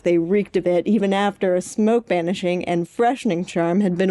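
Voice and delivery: lightly dramatic excerpt reading, amused; reading an excerpt aloud. Acted. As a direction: read the fanfic passage with a grin.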